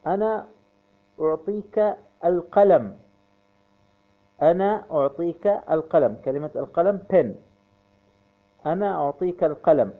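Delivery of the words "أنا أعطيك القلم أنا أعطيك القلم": ordinary delivery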